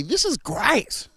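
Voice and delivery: high, slow, savoured praise; drawn-out delight. Retold or imitated. Celebrant voicing the crowd on a festive day, drawn-out delight. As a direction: stretch it out with mock delight. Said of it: "where we just say".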